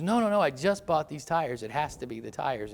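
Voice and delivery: mock protesting yell, loud and high at first; retold scream. Stranded woman insists to young helper, mock yelling. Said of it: "she's kicking and screaming".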